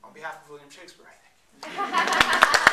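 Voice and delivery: pompous mock bow; mock grand thanks. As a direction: ham up a grandiose thank-you.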